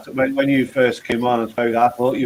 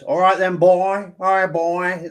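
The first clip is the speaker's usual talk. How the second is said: higher-pitched mock redneck twang; redneck accent; 6 semitones higher, slower than usual. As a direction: imitate a redneck's Southern drawl, pitched up. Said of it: "Is it rednecks who talk like this?".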